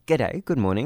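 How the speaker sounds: broad, matey Australian greeting; unplanned slip into strong Australian; very Aussie accent. Real, not acted. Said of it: "put on a very Aussie accent".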